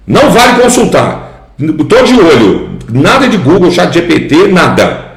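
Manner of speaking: high, teasing mock strictness; playful warning. Real, not acted. Teacher teasing students not to look it up, playful. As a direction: wag a finger at them, joking. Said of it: "playful warning to students".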